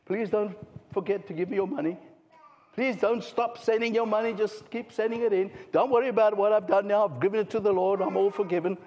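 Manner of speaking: a hammed-up, wheedling plea for money; sarcastic impression of a preacher asking for cash; mock pleading preacher. Mocking a fallen preacher's plea.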